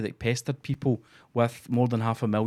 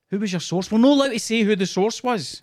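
mock evasive reporter; 9 semitones higher, 4 dB louder than usual. Mocking reporter source back-and-forth.

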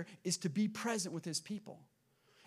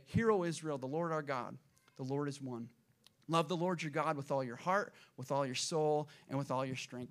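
understated prayer, settling lower toward the end; daily prayer recitation; 5 semitones lower than usual. Retold or imitated. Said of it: "they would say this prayer every single day".

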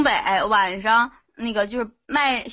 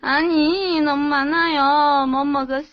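put-on Korean accent. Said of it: "你用韩文说一下".

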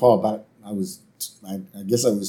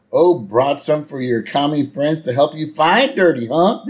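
higher-pitched cartoon oaf impression; Homer; 5 semitones higher, 4 dB louder than usual. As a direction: imitate a taunting cartoon dad. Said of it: "And Homer goes".

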